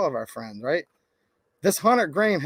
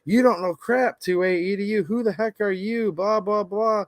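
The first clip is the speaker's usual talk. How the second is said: higher-pitched mimicked challenge, trailing into blahs; mock accusing commenter; 4 semitones higher than usual. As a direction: imitate an indignant online heckler. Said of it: "they're trying to pin me down".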